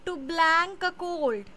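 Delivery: each word spaced out slowly for the class; teacher reading a fill-in-the-blank aloud; slow dictation. Shown as a demonstration. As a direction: read the blank sentence slowly and clearly. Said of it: "ए है".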